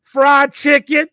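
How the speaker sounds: loud, high, slowed yell; mock congregation yell. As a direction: stretch out the crowd's shout. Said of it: "all these black people just yell".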